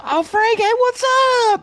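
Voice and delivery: imitating his cheerful phone greeting; cheery greeting. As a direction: play your upbeat self calling an old client. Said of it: "I'd call somebody and go".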